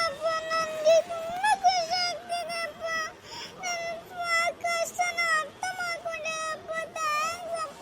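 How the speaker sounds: softly choking up while thanking; a daughter, quietly weepy; tearful thanks. Acted. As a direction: thank him through rising tears. Daughter thanks father before leaving.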